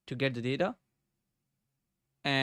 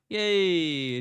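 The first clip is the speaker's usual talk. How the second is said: a quick, louder yay of delight; little cheer; 4 semitones higher, 7 dB louder than usual. Real, not acted. Coder cheering when the new border renders, louder excited yay. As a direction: cheer as the border finally appears.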